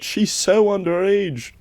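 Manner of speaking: yelled out. Retold or imitated. Writer yelling across the party bar, retold loud yell. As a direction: call it out at the top of your voice. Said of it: "yelled out".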